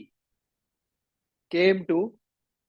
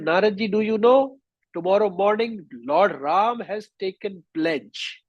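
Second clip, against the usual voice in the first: acted alarm, pitched up, slowing at the end; frightened report; 6 semitones higher than usual. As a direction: tell the dreadful news in a higher, worried storyteller's voice. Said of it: "He became very frightened".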